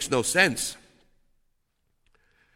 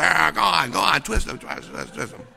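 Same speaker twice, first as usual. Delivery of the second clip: grandmother cheering. Retold or imitated. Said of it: "And she said".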